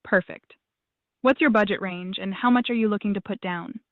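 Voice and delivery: normal talking voice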